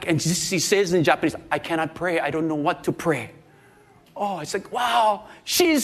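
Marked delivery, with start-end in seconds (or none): 1.5-3.3 softer, lower retold despair; downcast helplessness. Burdened woman admits she cannot pray, quietly helpless. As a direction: sound quietly at a loss.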